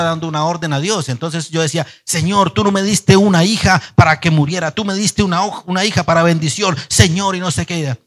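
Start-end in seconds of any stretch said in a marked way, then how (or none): 2.0-8.0 demanding prayer. Retold or imitated. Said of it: "como haciendo creer que, que es sumiso".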